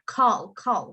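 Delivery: "Call, call" isolated and stressed; emphasized final syllable. Shown as a demonstration. Teacher isolating the verb's stressed ending, "call" emphasized. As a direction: punch each "call". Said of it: "emphasize the end".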